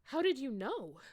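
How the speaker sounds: loud, high surprised question; loud, high astonished ask. A narrator's reading. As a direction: gasp out the question in shock. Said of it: "I asked in a surprised way".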